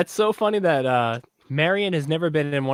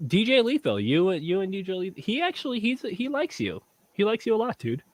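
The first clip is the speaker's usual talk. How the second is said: tipsy; 6 semitones higher than usual. Real, not acted. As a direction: talk a bit buzzed and sloppy. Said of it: "I'm tipsy as fuck".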